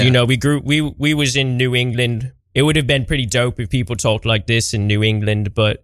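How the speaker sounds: lightly put-on accent loosely modelled on Idris Elba. Imagining New England talk to a friend, muddled put-on accent. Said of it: "what your accent you're doing".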